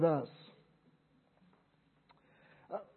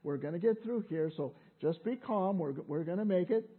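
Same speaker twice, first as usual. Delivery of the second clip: gently voiced, slightly lowered soothing tone; kindly calming mother; 3 semitones lower, 3 dB quieter than usual. Mother in the grocery store calming Monica, kindly and gently. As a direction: reassure softly, as a patient mother. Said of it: "speaking so kindly".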